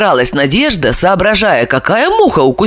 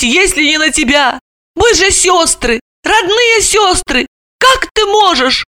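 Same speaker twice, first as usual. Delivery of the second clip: wailing lament; 10 semitones higher than usual. A narrator's reading. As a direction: wail it like a hurt sister into the pillow. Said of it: "запричитала". (причитая, высоким голосом)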